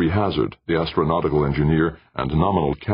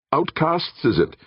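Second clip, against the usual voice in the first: snapping. A narrator's reading. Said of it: "Thornberry snapped".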